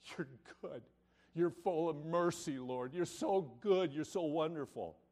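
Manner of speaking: soft, hushed, sincere prayer to God; heartfelt prayer. Pretend. Preacher models a sincere prayer for the congregation, softly. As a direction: pray it quietly from the heart. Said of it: "He hears it when we say".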